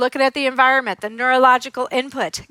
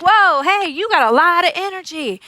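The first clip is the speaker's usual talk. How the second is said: loud, high, matching-energy hello; energetic greeting; 5 semitones higher, 3 dB louder than usual. Retold or imitated. Therapist greeting a hyper kid, matching his loud excitement. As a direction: meet his energy head on. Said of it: "But he's like".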